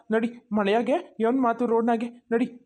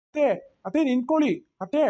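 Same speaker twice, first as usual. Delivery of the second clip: calling out. Acted. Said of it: "ಅತ್ತೆ ಅಂತ ಕರ್ದಂಗಾಯ್ತಲ್ಲ".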